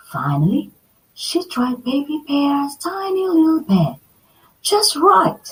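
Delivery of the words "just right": contented sigh. Acted. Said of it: "she sighed".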